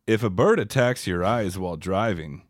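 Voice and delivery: deadpan safety-film narrator, lightly voiced; driver's ed narrator. Joking to a friend about a movie scene, mock driver's ed voiceover. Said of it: "doing the voiceover of the Driver's Ed".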